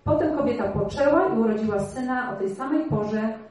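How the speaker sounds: measured, slightly lifted reading of the Bible story; scripture reading. Acted. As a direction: read it as a story to the congregation. Reads the Bible passage aloud. (czytanie Pisma Świętego na głos)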